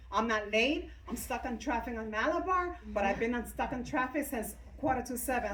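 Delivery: retold frantic protest, mildly hammed-up; mock frantic. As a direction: imitate a friend calling in a fluster. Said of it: "he called me frantic".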